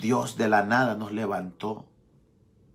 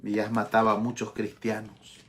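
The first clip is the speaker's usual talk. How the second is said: low, soft, measured rebuke; subdued reproof; 3 semitones lower, 6 dB quieter than usual. Acted. Preacher voices Jesus confronting Saul, subdued reproof. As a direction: speak gravely and softly as the Lord.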